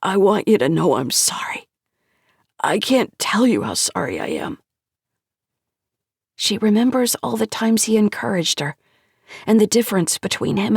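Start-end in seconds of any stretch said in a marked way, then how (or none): 0.0-4.6 choked up. Acted. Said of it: "He chokes again".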